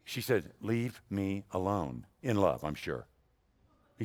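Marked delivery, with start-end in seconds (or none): 0.6-2.1 slow and softer, a sleepy wife brushing him off; mock sleepy wife. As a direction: drag it out half asleep. Sleeping wife woken by husband.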